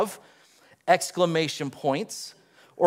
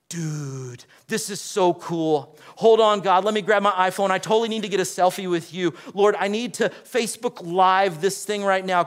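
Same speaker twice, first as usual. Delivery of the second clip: mock modern Isaiah. Preacher jokingly voicing Isaiah wanting a selfie, mock excited. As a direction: play Isaiah as a giddy selfie-taker. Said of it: "Is that what he said?".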